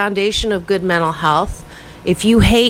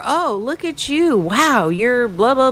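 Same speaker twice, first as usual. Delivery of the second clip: gushing compliment; 4 semitones higher than usual. Retold or imitated. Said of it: "people would say to me".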